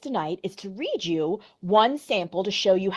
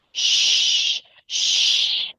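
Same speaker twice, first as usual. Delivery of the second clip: unvoiced soothing shh; calm her down gently; hushing. Hushing a crying friend.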